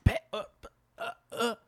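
high, broken mock stammer; retold high-pitched sputtering; starstruck stammer. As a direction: act out being lost for words, up high. Acts out his starstruck stammer.

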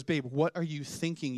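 understated imitation of a scolding wife; light, restrained mock telling-off; retold reprimand. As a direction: mildly reprimand your husband, in an everyday pitch. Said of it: "my wife then reprimands me".

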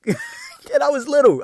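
words breaking into a laugh; chuckling through the line; laughing while talking. Real, not acted. Laughs telling his story.

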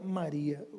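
low, soft call of a name; gentle naming. Acted. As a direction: say her name quietly, pitched well down. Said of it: "quando ele falou o nome dela". (nome chamado baixinho, em tom grave)

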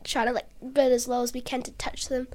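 hushed, breathless whisper; whispered aside. Retold or imitated. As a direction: drop to a whisper, as if sneaking up. Telling a sneaky boat game.

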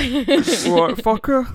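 high, loud London geezer; London geezer accent. Acted. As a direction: bark it like a London lad. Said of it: "That's more like it".

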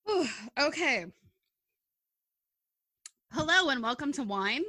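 recovering from giggles; after laughing hard. Real, not acted. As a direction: still breathless from laughing, loud. Restart after a laughing fit.

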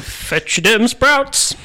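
hammed-up, drawn-out bad Sunderland voice; bad Sunderland accent. Co-host impersonating Kathy from Sunderland, hammed-up Sunderland accent. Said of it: "worst impression of that accent".

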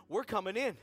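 firm, controlled declaration with some volume; firm announcement. Acted. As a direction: state it firmly, no shouting yet. Coaching friend's line to hostess.

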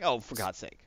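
low, muted exasperation; exasperated. Acted. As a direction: groan it at an insufferable pedant. Exasperated reply to acted snob.

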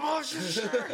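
very high, put-on willing voice; overdone sweetness to cover impatience; forced cheerful attitude. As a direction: squeak out a falsely agreeable reply. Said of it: "laugh and try to change my attitude".

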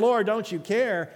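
loud, slow anguished plea; desperate cry. Pretend. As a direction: call out to God as you go under. Desperate cry to God in storm.

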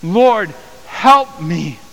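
loud, high cry for help; pleading prayer. Acted. Woman begging Jesus again, a loud high pleading cry. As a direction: plead from your knees. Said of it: "pleading before him".

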